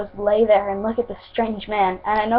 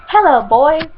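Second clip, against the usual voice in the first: bright, higher, louder greeting; cheerful hollered hello; cheery yell; 5 semitones higher, 5 dB louder, slower than usual. A narrator's reading. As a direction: call out cheerily to the group. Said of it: "I yelled cheerily into the air".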